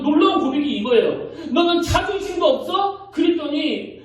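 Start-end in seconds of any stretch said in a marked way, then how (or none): 1.5-3.1 high, rising scold on 너는; mother scolding her bullied daughter, pitch up. Retold or imitated. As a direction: demand it like an upset mother. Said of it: "그렇게 막 야단을 치니까".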